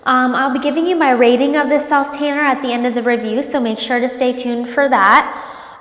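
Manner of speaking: congested voice from a cold; stuffy nose. Real, not acted. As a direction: speak with a blocked nose. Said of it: "if I sound a little congested".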